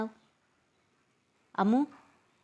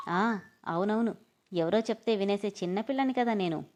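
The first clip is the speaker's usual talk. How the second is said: mock him with exaggerated yes; sarcastic. Yashodamma answering her husband's rebuke, sarcastic. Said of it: "అని వెటకారంగా అంటుంటే".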